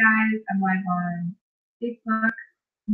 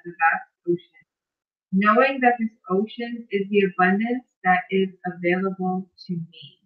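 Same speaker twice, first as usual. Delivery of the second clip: guided visualization reading. Acted. Host reads a bedtime visualization to live viewers, measured guided-meditation delivery. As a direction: lead listeners through it phrase by phrase, unhurried.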